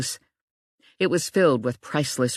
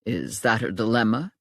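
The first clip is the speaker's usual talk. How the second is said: Emerson's voice; 5 semitones lower than usual. A narrator's reading. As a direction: play him unhurried and matter-of-fact.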